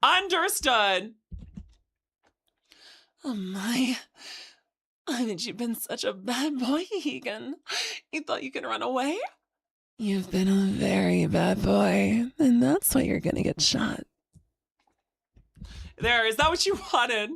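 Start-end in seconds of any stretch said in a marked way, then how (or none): 3.2-14.1 yandere. Pretend. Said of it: "you need this in Yon Dandy".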